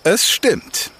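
calm storyteller reading a fairy tale; fireside storytelling. A narrator's reading. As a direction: tell it like a campfire tale. Campfire fairy tale narration.

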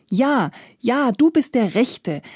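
a touch of relief, lightly voiced; relieved. Poor father accepting Death as godfather, mildly relieved. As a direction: sound glad the right one came. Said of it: "erwiderte der arme Mann erleichtert".

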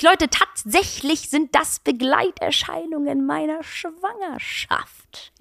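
slow build, then whisper Schwangerschaft; whispered reveal. Real, not acted. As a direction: drop to a secretive whisper. Pregnancy reveal, last word whispered.

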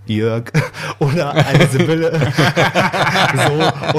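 laughing. Real, not acted. Laughs at own joke.

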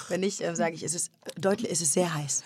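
soft whispered aside; whispering. Real, not acted. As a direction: whisper the polite version. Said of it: "darf man hier eigentlich fluchen".

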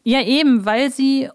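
ordinary delivery

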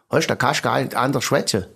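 broad Swabian speech; Swabian dialect. Shown as a demonstration. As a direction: slip into thick Swabian. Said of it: "Ich bin ein richtiger Schwab".

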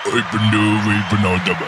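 silly put-on German bloke voice; hammed-up Uwe character. Uwe turns up to join the group, silly character voice. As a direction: play a goofy Uwe announcing himself.

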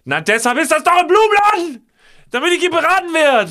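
high, loud pretend yell at the florist; high-pitched exasperated shout at the florist; imagined scream. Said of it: "ins Gesicht schreien würde".

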